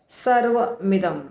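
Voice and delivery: सर्वमिदम said slowly, syllable by syllable; clear syllables. Shown as a demonstration. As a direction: spell out सर्वमिदम slowly with a short मि. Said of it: "म आधा और ई".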